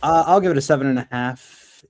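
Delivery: talking while holding down a cat; wrestling a cat. Real, not acted. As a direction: hold a squirming cat as you speak. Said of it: "I'm wrestling a cat right now".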